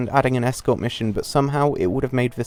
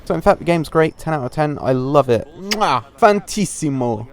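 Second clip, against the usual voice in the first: over-the-top fake enthusiasm, louder; sarcastic praise; 3 semitones higher, 4 dB louder than usual. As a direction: gush with mock delight, chef's kiss. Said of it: "In all seriousness".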